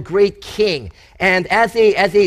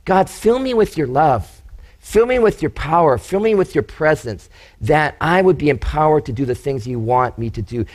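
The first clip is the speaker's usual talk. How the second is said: prayer voice; 3 semitones lower than usual. Shown as a demonstration. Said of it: "Can I encourage you to pray for that?".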